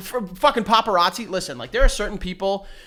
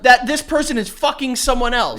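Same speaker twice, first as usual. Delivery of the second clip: higher, louder prying call; pushy paparazzi; 5 semitones higher, 6 dB louder than usual. Pretend. Paparazzo needling Frankie about his breakup, higher and louder.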